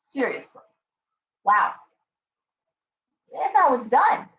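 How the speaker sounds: normal talking voice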